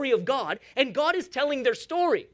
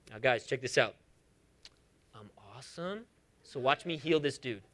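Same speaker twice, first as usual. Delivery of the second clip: mock show-off Jesus; 12 semitones lower, 8 dB quieter than usual. Mock boastful Jesus he never was.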